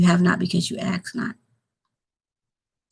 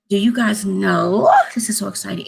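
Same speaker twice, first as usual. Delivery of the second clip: excited whisper; 2 semitones higher than usual. Real, not acted. Whispering to viewers before a Bible fact. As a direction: whisper it like sharing a secret.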